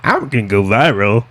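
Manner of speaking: mocking female heckler voice; typical heckler voice. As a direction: play a smug heckler wanting fame. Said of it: "What voice is that one?".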